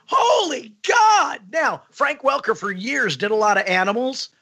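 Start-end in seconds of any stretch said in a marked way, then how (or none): 0.1-1.4 very high, slow, loud mock shriek; mock eagle shriek. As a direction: stretch out a shrieking eagle call. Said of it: "each one was like".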